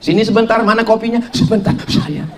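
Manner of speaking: coquettish wife, fading into breath; mock sultry. Wife cooing to husband over coffee, mock sultry. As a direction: coo it playfully, ending in an airy whisper. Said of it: "bersuara yang mendayu-mendayu ke suami".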